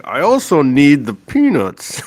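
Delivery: lightly imitated cartoon customer, drawn out slowly; slow, mock-serious last request; Homer. Retelling a Simpsons shopping gag, light slow impression. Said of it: "what did Homer buy?".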